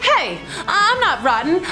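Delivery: ordinary delivery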